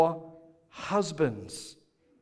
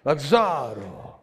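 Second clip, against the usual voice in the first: Antonio Banderas; 4 dB louder, much slower than usual. Shown as a demonstration. Pastor hams up Zorro voice for husbands. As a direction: breathe Oh, love like Zorro. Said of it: "Put on your Antonio Banderas here".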